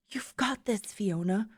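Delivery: steady yourself under your breath; quiet self-encouragement. Acted. Fiona psyches herself up before streaming.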